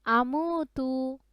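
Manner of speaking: drawn-out, measured Arabic syllables; recitation for repeating. Shown as a demonstration. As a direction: model it slowly for a pupil to echo. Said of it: "বলেন".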